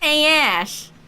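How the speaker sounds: put-on high Brooklyn accent. Suggesting a voice for a line to Ash, Joey Wheeler Brooklyn accent. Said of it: "give it like a Brooklyn accent or something".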